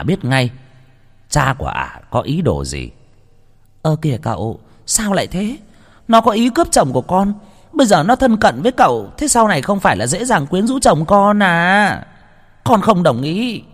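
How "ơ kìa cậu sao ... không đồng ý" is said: much higher, wheedling whine; whiny pouting daughter. A narrator's reading. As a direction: pout and sulk to win father over. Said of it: "Huệ nũng nịu". (giọng con gái nũng nịu, mè nheo)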